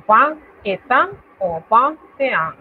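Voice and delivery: vingt et un said two ways in French; teacher demo; two French variants. Shown as a demonstration. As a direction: show both forms of vingt et un. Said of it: "Cualquiera de las dos es válida".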